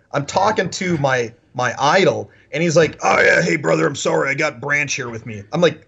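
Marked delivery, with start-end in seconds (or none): 3.0-5.4 a hint of Southern Hulk Hogan; lightly imitated "hey, brother" apology. Gym owner excusing himself to a caller, light wrestler impersonation. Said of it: "He sounds like a Southern Hulk Hogan".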